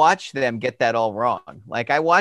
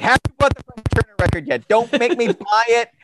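hectoring friend; 4 semitones higher, 4 dB louder than usual. Retold or imitated.

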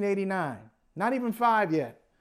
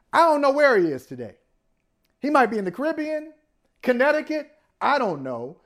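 high, loud, playful shrug; mock clueless answer; 7 semitones higher, 4 dB louder than usual. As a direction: toss it off breezily. Mock answer where partner is.

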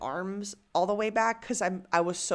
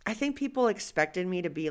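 usual speaking voice

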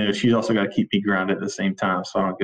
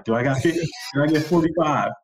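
quick rising auctioneer call; 6 semitones higher than usual. Retold or imitated. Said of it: "I'm like, uh, an auctioneer".

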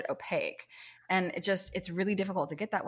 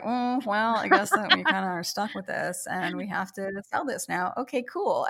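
resigned shrug; 3 semitones higher than usual. Retold or imitated. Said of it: "it was kinda like".

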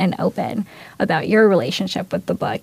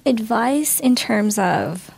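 crying; 3 semitones higher than usual. Real, not acted. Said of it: "I'm crying".

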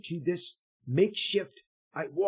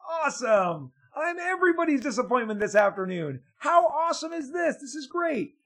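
sarcastic; 11 semitones higher, 5 dB louder than usual. Retold or imitated. Sarcastic reaction to criticism.

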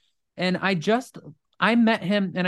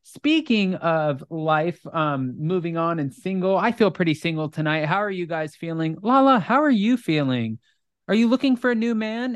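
teleprompter host; 2 semitones higher than usual. Retold or imitated. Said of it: "Andy's, like, reading the teleprompter".

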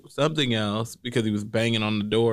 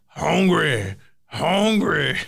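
loud, raised cry with falling tune; hollered imitation; 5 semitones higher, 3 dB louder, much slower than usual. Co-host mimics the hungry guest storming upstairs, hollering. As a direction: imitate someone calling out, pitched up.

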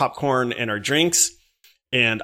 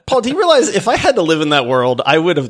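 laughing; 3 semitones higher, 4 dB louder, faster than usual. Real, not acted. Laughs at his own joke.

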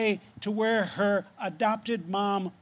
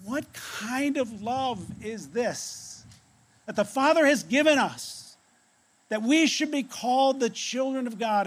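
mildly raised, emphatic wonder; urgent amazement; 4 semitones higher than usual. Retold or imitated. Old John shakes his readers, voicing urgent astonishment. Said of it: "shakes us and says".

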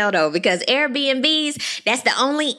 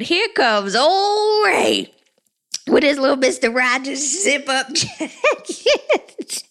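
slow, laughing through it; 4 semitones higher, slower than usual. Real, not acted. Host laughing at Ray's jacket, slow and giggly. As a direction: crack up while announcing him.

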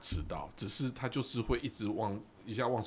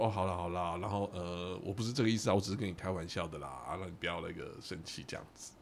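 placating. Retold or imitated. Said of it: "不能跟他讲道理嘛".

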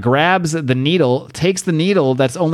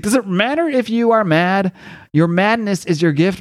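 higher, lightly dramatic godlike voice; Khonshu's pronouncement; 6 semitones higher than usual. Retold or imitated. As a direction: proclaim it like a god guiding his follower. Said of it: "He's like".

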